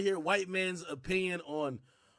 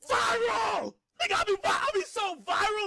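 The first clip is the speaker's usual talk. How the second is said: mock shout; 13 semitones higher, 4 dB louder than usual. Mocking his own viral fame.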